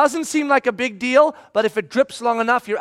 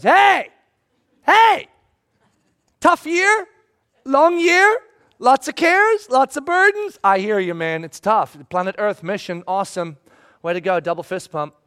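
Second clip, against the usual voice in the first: Christmas speaking; 3 dB louder than usual. Pretend. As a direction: voice Christmas cheering you on.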